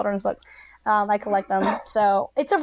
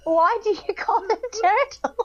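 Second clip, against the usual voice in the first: put-on kid voice; 10 semitones higher than usual. Retold child question, far voice.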